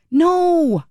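high exasperated exclamation; emphatic no. Real, not acted. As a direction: shut the excuse down hard. Rejecting his excuse emphatically.

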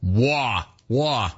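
lightly mocking New York vowel; mimicked New York accent. Host mimics the caller's "war", in a New York accent. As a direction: drop the R like a New Yorker. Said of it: "are you from New York".

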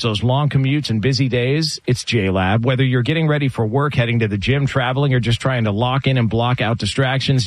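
upbeat sponsor read, slowing on the promo code. Acted. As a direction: sell the headphones like a radio host. Host reads sponsor ad.

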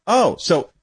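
scornful rhetorical question, climbing to the name; sarcastic challenge. Real, not acted. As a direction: needle him with mock disbelief.

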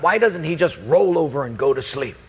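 mildly exasperated muttered complaint; lightly acted grumble; grumbling to God. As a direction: grumble a complaint about someone who won't settle. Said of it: "I just mumble to God".

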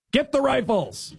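high, strained mock battle cry; mock yell. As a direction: shout the order like a mocking caricature. Mocking the leader's yell.

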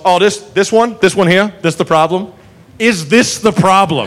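lightly voiced easygoing southern cop; amused cop. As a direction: eye the troublemaker with amusement. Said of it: "And finally goes".

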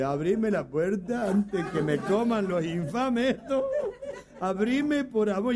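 mock panicked begging; frantic plea. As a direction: beg through the door half laughing. Frightened man begging, laughing.

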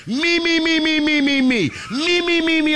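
high, rapid-fire mock whine of a show-off; mocking self-centredness. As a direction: chant it high, needling the attention-seeker. Mocks her as attention-seeking.

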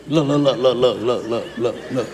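lightly voiced grumbling grandpa. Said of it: "just complain".

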